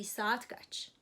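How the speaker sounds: saat kaç with a rise at the end; question demo. Shown as a demonstration. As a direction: model saat kaç for learners. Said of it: "time is saat".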